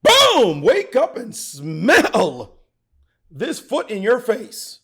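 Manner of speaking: high, loud burst, then drawn-out words; White's triumphant taunt. Acted. Chess commentator voices White springing a tactic, triumphant taunt. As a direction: crow it slowly at a beaten rival. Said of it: "until white goes".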